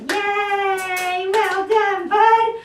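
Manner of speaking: sing-song high praise for the dog; excited praise. Real, not acted. Trainer cheering her dog, excited sing-song.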